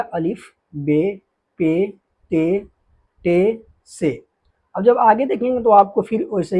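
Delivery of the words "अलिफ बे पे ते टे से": slow letter recitation. Shown as a demonstration. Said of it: "क्या हमने पढ़ लिया".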